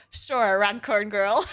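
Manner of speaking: slow, dismissive, half-laughing; sarcastic sure. Retold or imitated. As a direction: friend brushing her off with a nickname. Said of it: "He was like".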